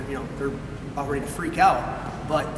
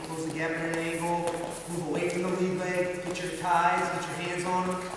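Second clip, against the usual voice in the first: composed, slightly raised-pitch encouragement; steady corner instructions, never frantic; calm coaching; 3 semitones higher than usual. Shown as a demonstration. Coach guiding a wrestler from the corner, calm and collected. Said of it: "calmness and stay cool and collected".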